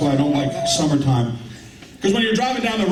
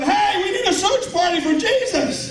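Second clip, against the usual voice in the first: mock yelling. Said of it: "I start yelling".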